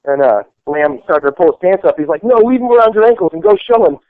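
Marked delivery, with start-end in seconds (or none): 2.2-4.0 high, loud shouted order; hammed-up drill sergeant yell; mock shout. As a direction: bark it out across the field.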